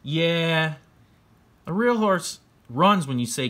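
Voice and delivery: put-on high, loud smug kid voice; lightly voiced bratty kid; know-it-all kid. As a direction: talk down like a kid who knows everything. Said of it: "He's like".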